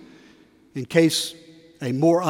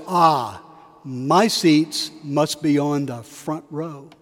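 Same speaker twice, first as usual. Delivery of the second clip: proud; 2 semitones lower, slower than usual. Retold or imitated. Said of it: "he stands up full of pride and he says".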